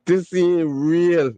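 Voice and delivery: slow, laugh-strained disbelief; barely holding it together; drawn-out words through laughter. Real, not acted. Overcome laughing at comment.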